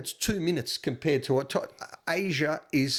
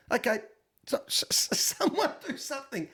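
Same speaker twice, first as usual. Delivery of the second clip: rude impatience; 9 semitones higher than usual. Retold or imitated. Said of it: "I sound rude 'cause I say".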